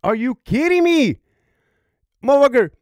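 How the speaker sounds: retold outrage. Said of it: "I'm like".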